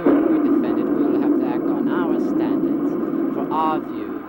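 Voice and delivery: a loud, urgent objection to fighting; forceful loud protest. Acted. Arguing with Omeron against defending it, loud. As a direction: raise your voice, pushing back hard. Heated debate over defending society.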